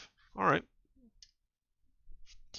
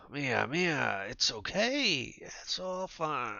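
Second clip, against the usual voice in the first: soothing; 4 semitones higher, much slower than usual. Acted. Calming the screaming woman.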